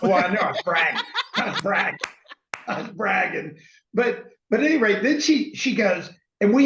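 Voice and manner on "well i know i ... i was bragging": laughing through the words, owning the brag; laughing admission. Real, not acted. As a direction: laugh it off while admitting the boast. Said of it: "thirty seconds can't be right".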